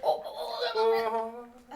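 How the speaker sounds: high startled oohs, quickly dropping; mock panic at being caught; flustered alarm. Player acting caught out as friends return, flustered.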